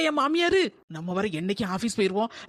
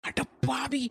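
soft muttered exclaim; quiet aside; 6 dB quieter, much slower than usual. Acted. Daughter-in-law eavesdropping, quietly exclaiming. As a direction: hush it while eavesdropping.

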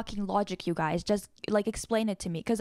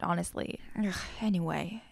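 whispered aside; 3 semitones lower, 5 dB quieter than usual. Real, not acted. Muttered aside after rant.

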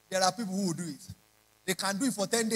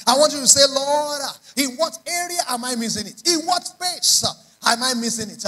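loud, high preacher's call; preaching at full force; 4 semitones higher, 6 dB louder than usual. Acted. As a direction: push the prayer out with force.

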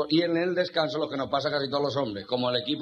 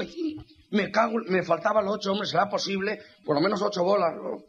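exasperated gambler; 5 semitones higher than usual. Acted. Gambler's frustrated outburst.

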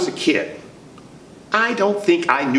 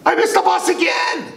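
frustrated shout. Acted. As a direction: yell it out. Misses bus again.

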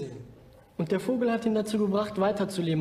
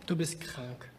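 whispered, confiding and close; 4 semitones lower, 7 dB quieter, slower than usual. Acted. Friend whispering the diagnosis to Bülent. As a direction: lean in and whisper it gently.

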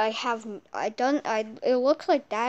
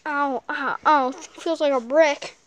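pained yelps; 2 semitones higher, 8 dB louder than usual. Acted. Hit in game, crying out.

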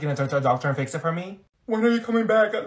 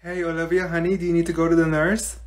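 normal talking voice

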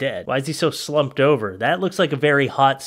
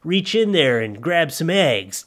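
creepy bunny voice; 3 semitones higher, slower than usual. Acted. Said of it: "he's like".

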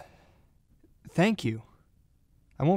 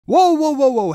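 alarmed cry; 10 semitones higher, 10 dB louder than usual. Acted. Partner turns on him.

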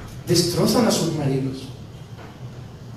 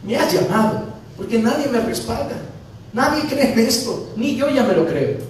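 tearful prayer; 5 semitones higher than usual. Retold or imitated. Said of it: "de noche llorando".

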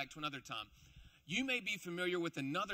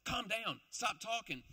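annoyed shushing; 3 semitones higher than usual. Acted. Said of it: "They turn to him and say".

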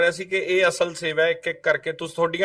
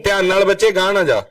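urgent warning; 5 dB louder than usual. Real, not acted. Reporter warning a child not to go further, urgent. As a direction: call out a real caution, louder.

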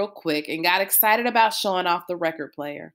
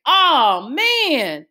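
startled yelp; 7 semitones higher, 5 dB louder than usual. Acted. Byron gets popped by a trap.

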